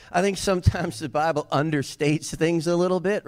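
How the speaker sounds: usual speaking voice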